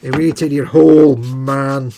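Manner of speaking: loud mock Scottish order; Scottish accent. Host plays wife banishing husband, mock Scottish accent. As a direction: send him off in a put-on Scottish accent. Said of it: "getting spoken to in Scottish accent".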